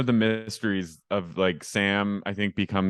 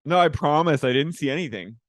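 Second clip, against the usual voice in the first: higher-pitched mock protest; acted insistent denial; 5 semitones higher than usual. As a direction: play an earnest, higher denial. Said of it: "She's like this".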